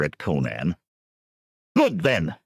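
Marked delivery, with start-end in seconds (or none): 1.8-2.4 high, loud call over the noise; shout over crowd. Acted. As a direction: cut through the cheering. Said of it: "Conan shouted over their cries".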